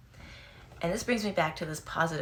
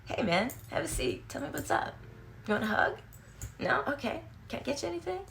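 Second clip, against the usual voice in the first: gentle friend; 9 semitones higher than usual. Retold or imitated. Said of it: "Or would you like".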